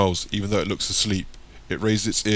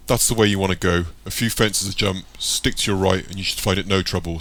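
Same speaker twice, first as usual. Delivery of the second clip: calling out; 5 dB louder than usual. Acted. Darren directs him across road.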